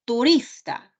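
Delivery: teacher's demo of Turista stressed tu-RIS-ta; stress on penultimate syllable. Shown as a demonstration. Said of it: "el acento está en la penúltima sílaba".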